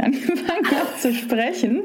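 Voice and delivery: laughing through the words; amused, light laugh. Real, not acted. Laughs at own forgetting.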